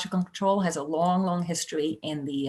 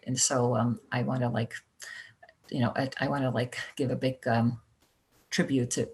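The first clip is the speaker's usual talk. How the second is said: sad; 5 semitones lower, 3 dB quieter than usual. Real, not acted. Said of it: "I do now need to be a little sad again".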